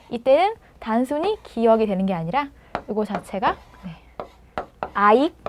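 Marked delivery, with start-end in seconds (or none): 4.9-5.3 louder "아익", stopped at the end; northern Hanoi reading of "아익"; demonstrating "아익". Shown as a demonstration. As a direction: glide a into i and stop on k in "아익". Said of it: "요렇게 읽혀져요".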